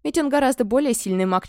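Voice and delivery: usual speaking voice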